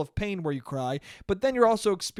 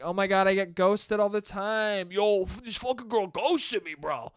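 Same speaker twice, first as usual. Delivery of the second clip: mocking bro; 2 semitones higher than usual. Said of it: "everyone's like".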